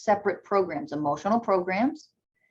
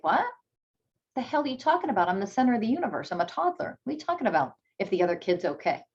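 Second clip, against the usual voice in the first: lightly voiced indignant toddler, higher; a toddler confused by the parent, higher and quick; mock toddler; 3 semitones higher, much faster than usual. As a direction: play a baffled, self-centred toddler.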